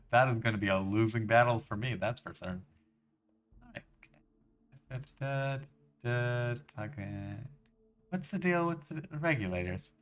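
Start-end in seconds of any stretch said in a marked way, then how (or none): none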